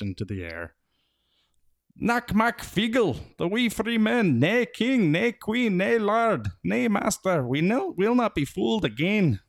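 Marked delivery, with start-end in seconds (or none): 2.0-9.4 much higher, loud, slow Scots war chant; Feegle battle cry. A narrator's reading. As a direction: roar it like tiny warriors with swords raised. Battle cry with swords drawn.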